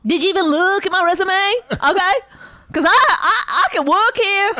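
high, loud indignant pleading; hammed-up protest at being turned down; rejected job applicant. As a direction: demand a second look, affronted. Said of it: "someone that won't get hired".

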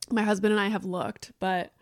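talking between sips of coffee; words around a sip of coffee; while sipping a drink. Real, not acted. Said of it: "sorry, I'm drinking my coffee as I record this".

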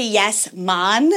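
"mon" with a Jamaican-style open vowel; Irish accent sliding into Jamaican on "mon"; Jamaican slip. Shown as a demonstration. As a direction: turn "ma'am" into a Jamaican "mon". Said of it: "goes into, like, a Jamaican situation".

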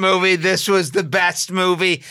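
put-on loud, hyped-up sales pitch to the kids; mock excited pitch. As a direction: oversell the movie with enthusiasm. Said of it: "telling my kids".

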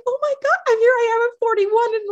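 mock outraged husband. Mocking husband's overreaction.

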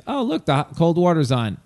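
mock excitement. Mock delight at cold water.

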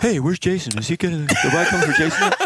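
lightly high doll voice; laughing pull-string doll line; pull string toy. Acted. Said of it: "freight dolls".

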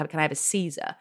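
low, soft, offhand order; casual ordering. Retold or imitated. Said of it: "him just casually being like".

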